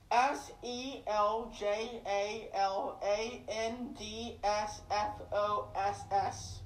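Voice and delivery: "S E L J A L A N D S F O S S" spelled letter by letter, slowly; each letter of "S E L J A L A N D S F O S S" said separately and slowly; spelling it out. Shown as a demonstration. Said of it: "I'll spell it for you guys".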